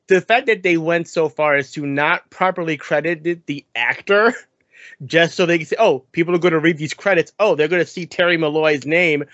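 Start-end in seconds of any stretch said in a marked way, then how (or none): 5.8-9.2 mock fretting. Voices fretting producers hiding the credit.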